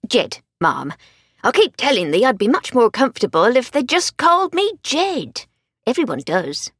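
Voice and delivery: put-on broad Yorkshire accent; old soldier with broad Yorkshire vowels. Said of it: "hadn't softened his broad Yorkshire accent".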